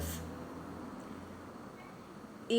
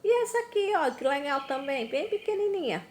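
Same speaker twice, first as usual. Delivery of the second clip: excited teacher; 4 semitones higher, faster than usual. Acted. Teacher enthusing to children.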